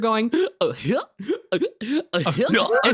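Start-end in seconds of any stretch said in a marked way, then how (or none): 0.4-1.5 choking gasp. Retold or imitated. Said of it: "trying to practice the Goofy laugh".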